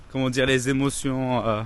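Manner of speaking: talking while chewing gum; words around a wad of gum. Real, not acted. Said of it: "j'ai un chewing-gum dans la bouche".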